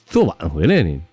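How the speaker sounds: acted drunken dad, high indignant questions; drunk father. Drunk dad challenges his child about coming home, indignant. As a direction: rise into an incredulous, tipsy outburst. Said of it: "醉醺醺的啊".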